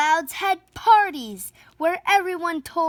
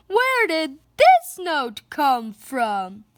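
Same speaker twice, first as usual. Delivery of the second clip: much higher, louder chaotic yelling; loud family yelling; 6 semitones higher, 7 dB louder than usual. Acted. The Louds shouting at each other at home, high loud yelling. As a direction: yell over all the noise at home.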